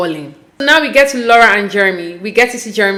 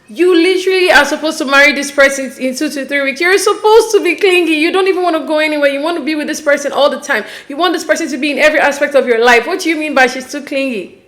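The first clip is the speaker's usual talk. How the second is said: raised-pitch, insistent indignation; indignant rant; 3 semitones higher than usual. Real, not acted. Host objecting to fiancé calling her clingy, indignant. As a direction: argue it back, incredulous. Arguing against the clingy remark.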